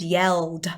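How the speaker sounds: "yelled" with a clearly sounded D at the end; crisp final D. Shown as a demonstration. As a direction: finish "yelled" on an audible D. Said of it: "you can hear the D on the end".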